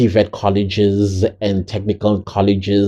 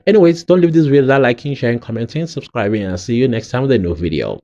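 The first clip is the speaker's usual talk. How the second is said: quick outro; 3 semitones higher, faster than usual. Real, not acted. Quick vlog sign-off.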